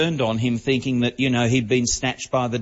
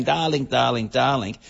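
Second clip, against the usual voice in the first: Zsa Zsa Gabor. Retold or imitated. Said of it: "running around the place going".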